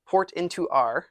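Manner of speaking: bare, simple words. Pretend. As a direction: dumb it down word by word. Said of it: "Use small words".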